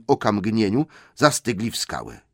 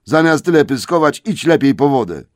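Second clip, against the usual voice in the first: higher, louder scolding troll; grumbling troll; 6 semitones higher, 8 dB louder than usual. Acted. Trolls scold Tom to go fetch water. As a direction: scold him and send him off.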